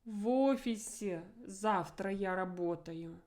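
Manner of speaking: офисе stressed with a rising-falling accent; emphasis on офисе. Shown as a demonstration. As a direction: hit офисе with the intonation. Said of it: "I have to emphasize it with my intonation".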